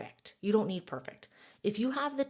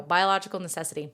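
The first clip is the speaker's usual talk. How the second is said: a hint of the Jungle Book voice, louder and faster; Jungle Book voice again; 6 dB louder, faster than usual. Shown as a demonstration. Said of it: "Now that's in my head".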